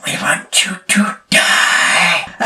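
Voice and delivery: slow, distant alien message; menacing alien voice. Retold or imitated. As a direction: intone it like a cold alien threat. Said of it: "What do you want us to do".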